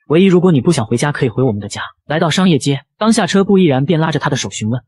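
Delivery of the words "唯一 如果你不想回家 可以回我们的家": comforting. Acted. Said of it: "安慰道".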